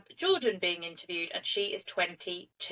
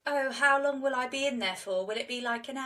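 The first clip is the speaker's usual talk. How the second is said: lightly voiced carefree girl, a touch higher; calm; 4 semitones higher than usual. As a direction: play her unbothered, as if asking about a short errand. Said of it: "she's so calm".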